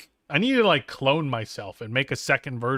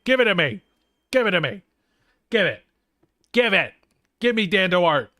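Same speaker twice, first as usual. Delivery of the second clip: put-on louder, higher childish whine of give it; whiny demand; 4 semitones higher, 3 dB louder than usual. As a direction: beg like a spoiled kid. Whining demand for username.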